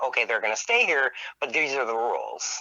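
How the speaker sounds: ordinary talk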